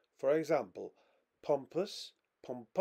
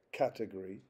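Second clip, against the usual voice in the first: "category" with the first syllable stressed; 2 semitones lower, faster than usual. Shown as a demonstration. Lecturer giving an example of first-syllable stress, first syllable stressed. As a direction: put the main stress on CAT in "category". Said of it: "stress may be on the first syllable".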